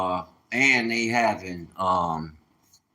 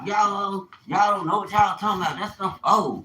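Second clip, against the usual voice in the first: higher, fast, sassy voice to mock his sister; 8 semitones higher than usual. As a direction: rattle it off quickly in a high voice, like a sassy sister brushing him off. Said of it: "She don't like me, too".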